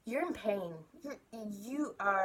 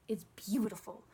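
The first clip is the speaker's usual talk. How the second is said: whisper. Real, not acted. Telling listeners sharing is beautiful, whispered. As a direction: whisper the word like a secret. Praising sharing for its own sake.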